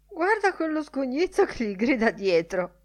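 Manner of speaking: amused onlooker. A narrator's reading. Lenihan at the window mocking the parade, high and amused. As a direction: point it out with high-pitched glee.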